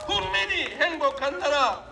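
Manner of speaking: building rally cry to the crowd; rousing shout. Real, not acted. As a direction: call out to the crowd, full force.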